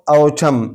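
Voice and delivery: ऑटम drawn out slowly, ending on M; silent N. Shown as a demonstration. Teacher explains the rule, ऑटम with silent N. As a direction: stop ऑटम at the M, no N. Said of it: "एम पर आवाज़ ख़त्म कर देंगे".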